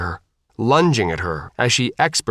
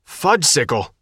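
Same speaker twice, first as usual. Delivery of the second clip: shout; 4 semitones higher than usual. A narrator's reading. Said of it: "the girl shouted".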